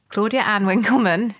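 mock stern telling-off; firm, mock-serious use of full name. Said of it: "this is my stern voice".

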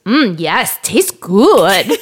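put-on savouring German-sounding child, amused; imitated German-tourist toddler. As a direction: mimic a little German tourist relishing lunch. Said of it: "talks like a little German Taurus".

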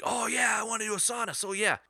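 high-pitched mock excitement; imitated excitement. Friend jumping at the sauna offer, imitated in high, excited voice. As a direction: play a friend lighting up at the idea. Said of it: "He was excited".

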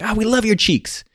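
high, drawn-out mock flattery; imitating sycophantic yes-men; fawning friends. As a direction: gush slowly in a put-on high voice. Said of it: "And they're like".

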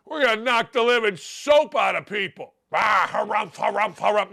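put-on old-timer coach bluster, harumphing; old-school coach. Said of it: "those of you that are old like me think".

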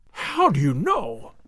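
slow, stunned gasp of a question; gasping in shock. Acted. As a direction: breathe it out, thunderstruck. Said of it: "he gasped".

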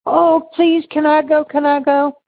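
imitating a friend begging to join the trip; pleading friend. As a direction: beg to come along like a kid. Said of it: "She goes".

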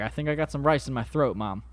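vaguely British-sounding voice; a made-up accent, lightly done; weird made-up accent. Retold or imitated. Son telling his mom, lightly British-sounding accent. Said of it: "It just sounded like a weird accent".

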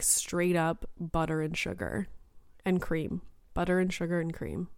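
a tired voice that keeps giving out. Real, not acted. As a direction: voice going hoarse and weak. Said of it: "I'm losing my voice again".

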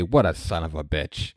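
low, soft aside; muttered judgment. Retold or imitated. Listener judging the accented kvetch, low soft verdict. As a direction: drop the voice for the verdict. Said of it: "I say".

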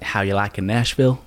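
put-on Southern American accent; mock Southern American accent. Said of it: "I think my accent's getting better".

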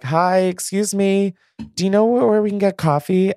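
high-pitched mock celebrity calling out; imitated Kardashian call-out. Kim and Khloe calling from their Rolls Royce for coffee, mock high-pitched shout. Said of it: "shouting from their Rolls Royce".

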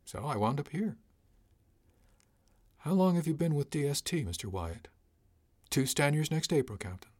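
a hint of a breezy, unbothered crewman excusing himself; cargo chief Wyatt. Cargo chief Wyatt answering captain.

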